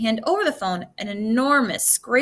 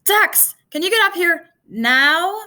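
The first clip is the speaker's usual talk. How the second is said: high, loud call from above; calling a friend up to the cockpit, loud shout; 8 semitones higher, 6 dB louder, slower than usual. A narrator's reading. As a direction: call up to him, loud and urgent. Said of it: "Joe shouted down from the cockpit".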